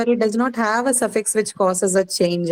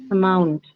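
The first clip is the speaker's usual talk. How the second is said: Amount with MOUNT stressed, falling; light A, weight on MOUNT in Amount; stress on second syllable. Shown as a demonstration. Teacher repeats Amount for students, stressing MOUNT. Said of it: "mark it on the second syllable".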